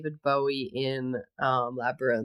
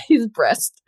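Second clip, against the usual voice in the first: laughing at her own slip; 7 semitones higher, 6 dB louder than usual. Real, not acted. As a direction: giggle through the word breast.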